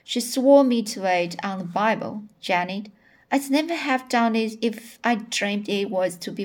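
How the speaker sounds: expressive audiobook-style reading; story reading aloud. A narrator's reading. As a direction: read the character's confession aloud with lively emphasis.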